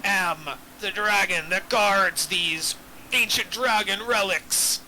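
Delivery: lightly voiced grand old dragon. Dragon NPC speech, GM voice.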